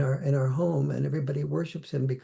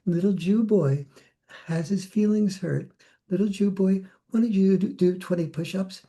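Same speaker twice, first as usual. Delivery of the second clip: sarcastic sergeant ridiculing a recruit's hurt feelings; mocking drill sergeant; 5 semitones higher than usual. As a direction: jeer at him like a bullying drill sergeant. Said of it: "It would be".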